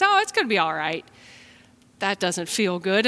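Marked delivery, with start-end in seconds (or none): 0.0-1.1 dismissive reassurance. Retold or imitated. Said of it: "someone says".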